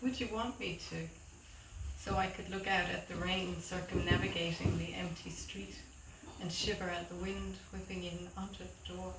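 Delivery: understated poem reading, long pauses between phrases; poetry reading. Acted. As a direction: let each line of the poem settle. Reads own poem aloud.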